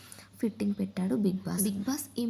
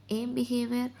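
raised voice; 4 semitones higher than usual. Retold or imitated. Divya challenging Tanuja, raising her voice. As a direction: pitch jumps up on behaviour. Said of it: "Divya voice raise చేసింది".

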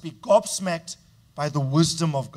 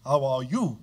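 gracious reply; 4 semitones lower than usual. Shown as a demonstration. Pastor showing a church member how to answer kindly on WhatsApp, gently. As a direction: answer kindly, taking your time. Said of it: "If they ask, let me say".

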